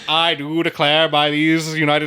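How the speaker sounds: loud presidential oratory; John F. Kennedy. Retold or imitated. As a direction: proclaim it like a statesman at a podium. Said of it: "John F".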